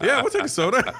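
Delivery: put-on giddy teen grabbing the offer; laughing kid. Teen at Eddie Murphy's door accepting a soda, laughing.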